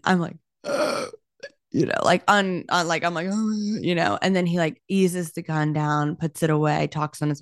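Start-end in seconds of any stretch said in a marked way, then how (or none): 0.6-1.1 short voiceless sob-gasp; imitated sobbing gasp. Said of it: "I just start sobbing". 3.3-3.8 short higher-pitched sobbing gasp; imitated sob. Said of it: "I just start sobbing".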